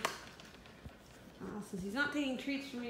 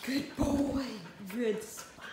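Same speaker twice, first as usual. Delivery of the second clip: squeaky praising a dog; 5 dB louder, slower than usual. Real, not acted.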